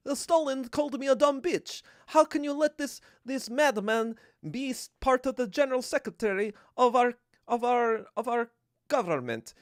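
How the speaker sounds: put-on high, accented voice of an aggrieved wife; mock Krupskaya. Wife complaining to Lenin about Stalin's rudeness, high mock-indignant voice. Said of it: "Krupskaya is like a dumb bitch".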